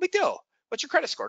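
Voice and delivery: relaxed, casual, low-key, easy offhand tone. Demonstrating tonalities for a conversation: disarming, no-big-deal tone. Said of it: "That's a disarming, no big deal tone".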